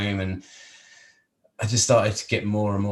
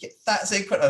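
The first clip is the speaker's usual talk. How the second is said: much higher, gushing imitation; impressed praise; 13 semitones higher, much faster than usual. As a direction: play the amazed friend. Friend praising painting.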